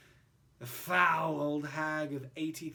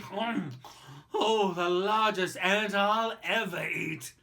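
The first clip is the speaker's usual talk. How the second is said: murmuring creature; 8 dB louder, slower than usual. Acted. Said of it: "murmuring as it chewed".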